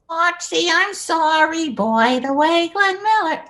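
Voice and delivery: lightly voiced sitcom housewife singing along; quick impression for Carson to guess; Edith Bunker impression. Shown as a demonstration. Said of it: "Can I do some and you guess who they are".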